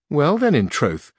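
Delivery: lightly voiced Sancho. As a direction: plead sweetly for his donkey.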